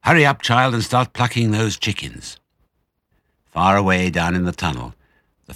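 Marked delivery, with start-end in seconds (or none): 0.0-2.4 put-on urging child.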